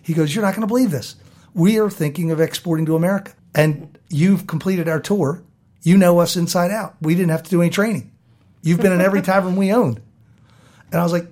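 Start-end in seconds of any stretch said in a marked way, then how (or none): 0.3-10.0 retold excitement. Brewery owner to the tour finisher, excited. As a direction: build into louder, higher enthusiasm.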